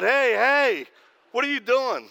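high, loud mock alarm; alarmed protest. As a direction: imitate a startled man backing out of a fight. Acted alarm as he's hit.

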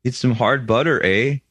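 lightly done Canadian accent; casual mock Canadian. Shown as a demonstration. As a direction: demonstrate a Canadian accent with a tagged-on "eh". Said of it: "here's his Canadian accent".

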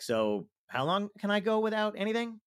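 high, put-out questioning; high-pitched protest. Acted. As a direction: push the question high, as if stranded. Acted worried patient asking doctor.

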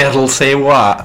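co-host's go at a Scottish accent; attempted Scottish accent. Shown as a demonstration. Co-host testing whether it works, light Scottish accent. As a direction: try the phrase in mock Scottish. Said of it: "can't say that with a Scottish accent".

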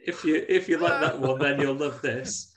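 taunting offer through laughter; playful creepy boast, laughing; laughing mock taunt. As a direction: tease while laughing, slowing at the end. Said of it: "and then she goes".

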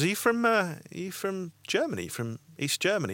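put-on dad sniffing out the accent; dad's suspicious question. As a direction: voice the dad catching him out. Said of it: "And he goes".

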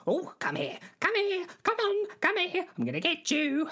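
high squealed chicken-chaser; hammed-up high chasing cries; playful chase calls. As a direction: call out high, closing in on your prey. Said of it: "then I'd chase her like this".

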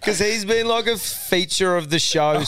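high and slow, still giggling through it; laughing. Real, not acted. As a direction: push the words out between laughs.

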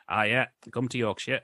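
imitated Yorkshire accent, not quite right; rough Yorkshire accent. Reviewer mimicking a priest actor's speech, rough Yorkshire accent. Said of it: "I can't do a Yorkshire accent properly".

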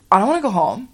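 lightly mock-indignant denial; cocky. Girl denies last night to the counselor, lightly cocky. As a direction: brush it off like a cocky kid. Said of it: "could not be cockier".

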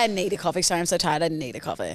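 tired mumble. Retold or imitated. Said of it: "I think I say".

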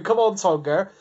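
retold cheer in a Somerset accent; lightly called, with a Somerset twang. Just him cheering on Tonga, Somerset accent. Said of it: "that's my Somerset accent".

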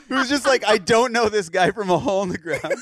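laughing through a quote; can't stop laughing mid-sentence; laughing while talking. Real, not acted. Laughing while quoting friend.

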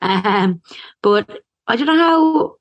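lisping through a dental brace; slight lisp, brace in the mouth. Real, not acted. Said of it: "so I have my lisp again".

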